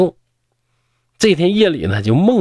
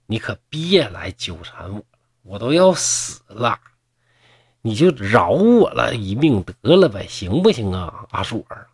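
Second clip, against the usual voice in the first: irritated plea. Acted. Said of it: "董生满脸不高兴".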